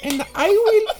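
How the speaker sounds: high, slow mock-German woman's voice; German accent. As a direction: drag out English in a high-pitched German accent. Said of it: "avec l'accent allemand".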